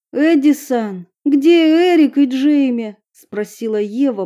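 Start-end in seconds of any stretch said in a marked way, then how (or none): 0.1-3.0 put-on anxious girl. Eva asks anxiously.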